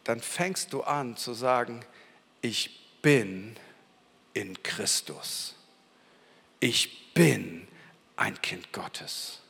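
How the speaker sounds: hushed, tender confession of faith; quiet declaration. Acted. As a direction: speak identity in Christ calmly into yourself. Quiet slow affirmations.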